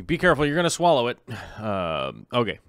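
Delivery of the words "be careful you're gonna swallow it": mom warning. Retold or imitated. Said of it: "My mom says that too".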